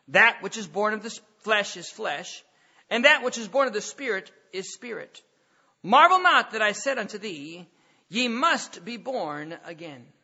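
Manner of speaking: measured King James reading voice; steady formal Bible reading to the congregation; scripture reading. Acted. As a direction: read the old verses with solemn weight. Reads John 3 scripture aloud.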